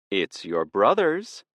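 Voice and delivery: slow, coaxing offer; enticing tone. Acted. Hecate offering Hades a jar of blood, enticing and slow. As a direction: tempt him with it. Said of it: "her voice taking on an enticing tone".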